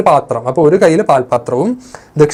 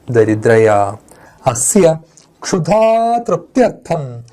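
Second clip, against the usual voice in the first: slow, measured reading of a verse text; slow Sanskrit recitation; much slower than usual. Acted. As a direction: recite each phrase slowly for the class.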